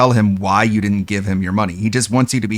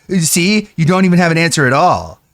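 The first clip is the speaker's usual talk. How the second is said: mock streamer; faster than usual. Imitating streamer.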